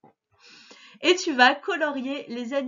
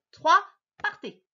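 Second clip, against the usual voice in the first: countdown call; 7 semitones higher, 6 dB louder than usual. Real, not acted. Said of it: "tu commences à lire à trois".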